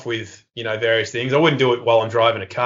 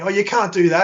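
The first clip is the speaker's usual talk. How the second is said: higher-pitched mock outcry; retold indignant yell, pitched up; 8 semitones higher than usual. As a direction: imitate a crowd of kids protesting. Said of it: "everyone's yelling at me".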